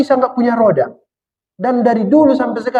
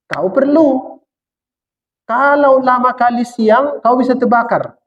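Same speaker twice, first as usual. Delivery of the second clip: slow, raised and solemn as God speaking; God declaring calmly to man, slightly higher; 4 semitones higher, slower than usual. Acted. Preacher voicing God to his listeners, slow and solemn. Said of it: "kata Tuhan".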